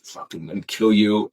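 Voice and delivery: cold deadpan threat, lightly done; half-joking killer stare in the voice; a hint of menace, flat and steady; menacing deadpan. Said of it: "walked like I was fucking dead face".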